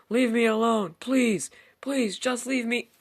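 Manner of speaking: veel hoger en luider smeken, aan het eind trager; desperate pleading, slowing. Acted. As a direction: smeek het uit, steeds langzamer. Begging the caller to stop.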